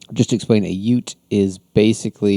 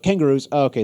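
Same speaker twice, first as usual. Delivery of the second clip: mock excited; 6 semitones higher, 5 dB louder, faster than usual. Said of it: "and it's like".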